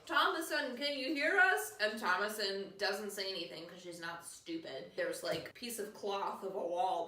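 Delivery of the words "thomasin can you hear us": put-on raised, louder call to a child in the next room. Parents calling out to their child.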